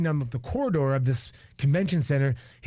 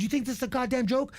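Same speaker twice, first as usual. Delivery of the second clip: retold freak-out; 9 semitones higher than usual. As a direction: imitate an angry man confronting you. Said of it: "he comes up to me freaking out".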